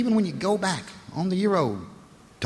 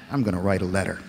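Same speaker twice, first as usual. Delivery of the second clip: grim Brit threat; 9 semitones lower than usual. Retold or imitated. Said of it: "they've truly snapped".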